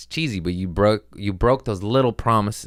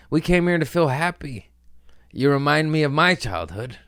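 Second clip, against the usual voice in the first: whiny crowd voice; 8 semitones higher, 3 dB louder than usual. Retold or imitated. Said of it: "They're like".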